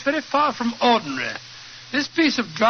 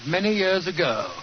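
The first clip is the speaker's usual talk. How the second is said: measured storytelling voice; story narration. A narrator's reading. Watson recounting the case to listeners, storytelling. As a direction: draw listeners into the foggy tale.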